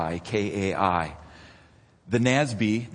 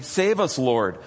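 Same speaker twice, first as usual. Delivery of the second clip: mock desperate cry; 4 dB louder than usual. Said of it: "Matthew records them saying".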